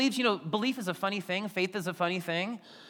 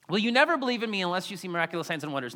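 rapid reading; much faster than usual. Shown as a demonstration. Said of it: "And then Jesus says this".

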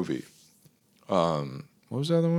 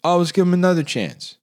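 hopeful; 8 semitones higher, 4 dB louder than usual. Retold or imitated.

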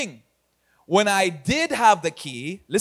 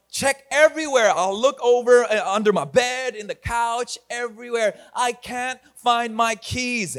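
higher-pitched retold frantic search; mock exasperation; 4 semitones higher than usual. Pastor retelling the hunt for his keys, mock exasperated. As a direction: act out mild panic, drawing out the last words.

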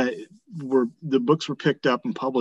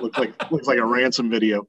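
in a garage. Real, not acted. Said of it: "I'm filming from my garage today".

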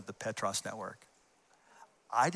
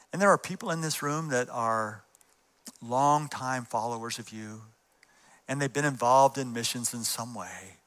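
guided prayer. Acted. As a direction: lead them gently into prayer. Leads congregation in prayer.

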